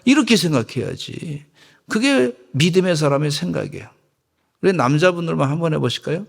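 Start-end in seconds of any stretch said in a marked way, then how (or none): none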